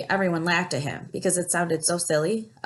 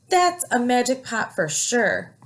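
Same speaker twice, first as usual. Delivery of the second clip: excited; 6 semitones higher, 4 dB louder, slower than usual. A narrator's reading. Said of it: "said Big Anthony".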